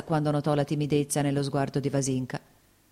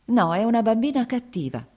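louder, higher exasperated complaint; angry; 8 semitones higher, 5 dB louder than usual. A narrator's reading. Mother complaining to Lievin, angry. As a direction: vent your anger at the child. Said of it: "diceva arrabbiata".

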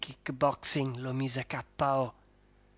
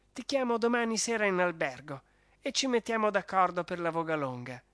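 dazed baron; 3 semitones higher than usual. Acted. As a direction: thank them weakly, still groggy. Baron reassures Fulvia.

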